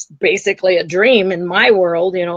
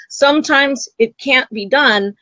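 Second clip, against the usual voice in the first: ordinary delivery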